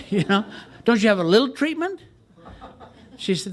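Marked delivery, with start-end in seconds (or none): 0.9-2.0 mock pleading. Pleading for cheaper treatment.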